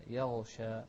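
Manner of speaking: slow يغشى, غ voiced and flowing with no bounce; corrected pronunciation. Shown as a demonstration. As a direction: hold the غ of يغشى briefly before ش. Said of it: "لا".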